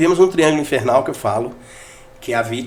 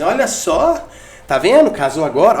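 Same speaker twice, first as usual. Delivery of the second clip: higher, louder, half-hearted complaining mother; mock wounded mother; 4 semitones higher, 3 dB louder, slower than usual. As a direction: play the hurt mother lightly, with a hint of reproach. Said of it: "Aí ela fala assim". (mãe magoada, um pouco teatral)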